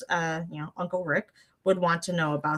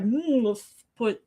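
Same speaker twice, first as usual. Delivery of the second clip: sneaky whisper. Retold or imitated. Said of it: "Abu's like".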